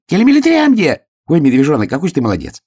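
high, loud delight easing into praise; восторженный крик. A narrator's reading. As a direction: exclaim in high-pitched joy. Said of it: "крикнул ежик". (восторженно, тонким голосом)

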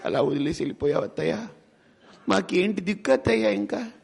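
high, soft mock lament, a hint of a daughter-in-law's weeping; mock wailing. Daughter-in-law mourning her mother-in-law, mock wailing. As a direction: wail it like a grieving daughter-in-law, half-hammed. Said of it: "కోడలు వచ్చి ఏడుస్తుంది".

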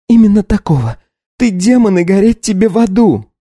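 high, loud accusing tirade; Katya, furious wife. Acted. Wife accuses her husband of taking everything. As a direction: hurl the accusations at him.

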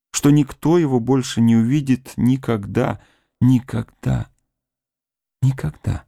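high, breaking voice of grief; grieving. Acted. Woman grieving for her dead fiancé, voice breaking. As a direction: let her despair rise with each never.

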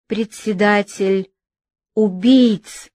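breathless, strangled shout; choking cry. Acted. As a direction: gasp out the accusation, choking. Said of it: "задыхающийся крик Робеспьера".

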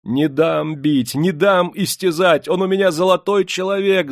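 keen in desperate defence of your husband; woman's loud, pleading lament; wailing. A narrator's reading. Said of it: "заголосила она".

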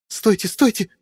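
high, startled plea to stop; startled cry. A narrator's reading. Frightened woman in dark corridor begs them stop, high startled cry. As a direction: cry out in sudden fright, hands up. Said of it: "воскликнула фигура".

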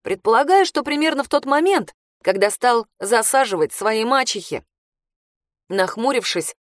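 usual speaking voice

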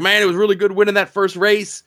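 high, earnest racer thanking the crowd; a hint of a good-guy wrestler; babyface promo. Winning racer dedicating the win to his brother, mild babyface. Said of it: "He's like".

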